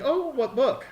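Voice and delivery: lightly voiced eager question, high; curious missionary. Missionaries asking about the book, a lightly voiced eager question. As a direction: ask with eager interest. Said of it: "And they're like".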